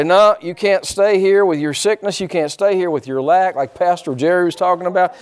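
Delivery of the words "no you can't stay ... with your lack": raised, insistent preacher's rebuke; firm command. Acted. Preacher showing believers how to rebuke sickness, forceful command. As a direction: order it out with force.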